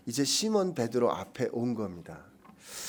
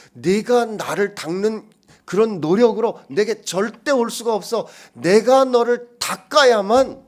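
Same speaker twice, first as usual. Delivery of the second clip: forceful preaching; 8 semitones higher, 12 dB louder, slower than usual. Real, not acted. Preacher booms Jesus' point.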